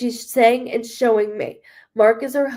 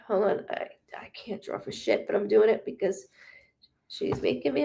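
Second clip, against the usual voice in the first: breathy whisper, much softer; whispered self-deprecating aside; 6 dB quieter than usual. Real, not acted. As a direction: mutter it under your breath to yourself. Aside while sketching the bracelet.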